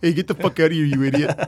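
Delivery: flat monotone, no raise; level deadpan swearing. Retold or imitated. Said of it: "His voice never raises above it".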